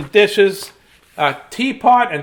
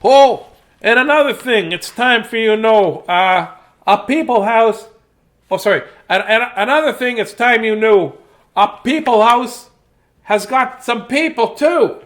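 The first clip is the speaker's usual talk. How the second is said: cheerful storybook mouse showing off the house; 3 dB louder than usual. Acted. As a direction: chirp it out like a little mouse. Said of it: "this is the mouse voice there".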